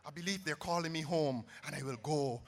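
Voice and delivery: sarcastic whispered farewell; mock whisper. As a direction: fade to a playful whisper. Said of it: "But let us whisper".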